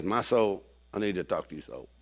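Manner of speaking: low, quiet inward address; talking to oneself. Acted. David questioning his downcast soul, low self-talk. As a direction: speak low, as if to your own soul.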